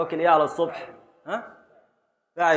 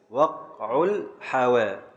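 slow scansion; much slower than usual. Shown as a demonstration. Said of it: "scanning the meter slowly".

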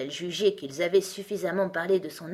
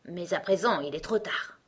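lightly voiced, raised-pitch know-it-all character; opinionated Gros Coco; 4 semitones higher, 4 dB louder than usual. Gros Coco advises Alice on her age, opinionated. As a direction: lecture a child with self-assured authority.

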